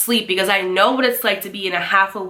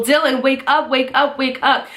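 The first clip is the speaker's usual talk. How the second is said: higher-pitched urgent plea to wake; urgent waking; 4 semitones higher than usual. Retold or imitated. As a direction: rouse a sleeper with insistent repeats. Urgently waking sleeping brother.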